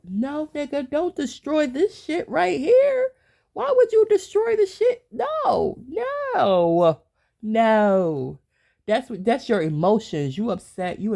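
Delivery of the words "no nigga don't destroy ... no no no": much higher and louder, shouting him down; heated shout. Real, not acted. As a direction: yell no over and over, very high. Scolding the dude who'd destroy it.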